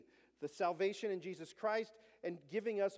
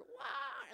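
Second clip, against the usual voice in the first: imitated child's "wah", pitched up; imitated scream; 7 semitones higher, 4 dB quieter than usual. Boy poked with allergy needles, imitated scream. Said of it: "then he screamed, "Bloody murder".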